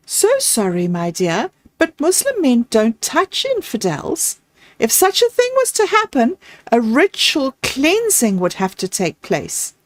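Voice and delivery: lightly voiced sweet, apologetic mother. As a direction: explain it sweetly, with high lilting phrases. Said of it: "A sweet voice broke into".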